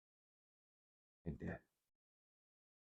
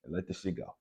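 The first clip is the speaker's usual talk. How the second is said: louder, blunt buddy telling him off; the guys' tough talk; 5 dB louder than usual. Retold or imitated. Friends telling him to stop crying, loud and blunt. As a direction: bark it like a friend who's had enough. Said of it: "I can hear guys say".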